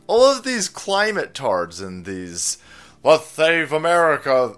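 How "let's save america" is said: lightly lisped dopey activist; mock activist. Host mocking climate protesters, lisping mock activist. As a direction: put on a lisp for a mock slogan.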